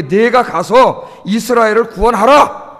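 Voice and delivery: slow, solemn divine command; God's command. Acted. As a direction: pronounce it slowly as God's word. God's command to Gideon quoted.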